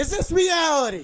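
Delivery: hammed-up shock; stunned disbelief. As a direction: ask the room if this is real. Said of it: "I'm like".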